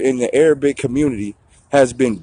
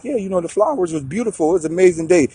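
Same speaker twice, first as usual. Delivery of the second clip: mock casual chat; 4 semitones higher, 4 dB quieter, faster than usual.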